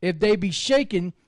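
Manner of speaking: measured, solemn Bible reading; steady solemn reading voice; scripture reading. Acted. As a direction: read it like the King James from the pulpit. Reads Nahum chapter aloud.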